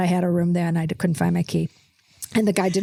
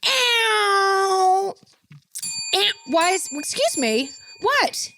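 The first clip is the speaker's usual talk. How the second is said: put-on a few Australian-accented yelps; mock Australian, warming up; Australian accent, hammed-up; 10 semitones higher, much slower than usual. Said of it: "I can do an Australian accent".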